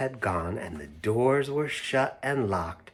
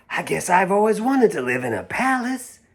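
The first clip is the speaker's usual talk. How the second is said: delighted bear; 8 semitones higher, 4 dB louder than usual. A narrator's reading. Corduroy delighted.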